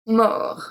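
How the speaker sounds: "Mort" ending on a French R, no T; silent T. Shown as a demonstration. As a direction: leave the final T of "Mort" unspoken. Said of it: "we don't pronounce the T".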